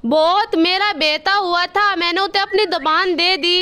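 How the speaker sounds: lisped, "अथा दो तल" for "अच्छा तो सर"; lisping crow. Acted. Kalu crow to the doctor, lisping after the surgery. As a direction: say "थाता" with a childlike lisp. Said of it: "अब तुम्हारी जुबान तोतलाती है।".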